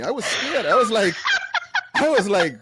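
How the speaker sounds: high, loud, laughing mock fright; mock scared. Bill recalling his fright at the big guy, laughing and loud. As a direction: ham up being frightened.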